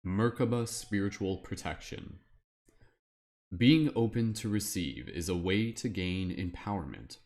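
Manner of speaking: slow, measured reading as a lightly voiced wizard. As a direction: read it out like a solemn wizard, drawing out phrase endings. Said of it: "my like wizard voice".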